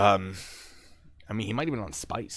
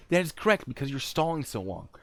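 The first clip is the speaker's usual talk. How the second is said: higher, insistent comeback; exasperated retort; 7 semitones higher than usual. Retold or imitated. Agent blames man for stalling, exasperated retort. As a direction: argue back in a raised pitch.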